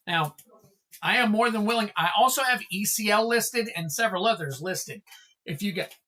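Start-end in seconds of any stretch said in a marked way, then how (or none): 5.4-5.9 hiccuping mid-sentence; hiccups. Real, not acted. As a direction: cut off by a hiccup. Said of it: "excuse me, got the hiccups".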